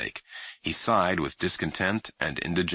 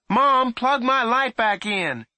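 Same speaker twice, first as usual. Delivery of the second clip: calling down; 6 dB louder, slower than usual. A narrator's reading. Boy calling down, first try.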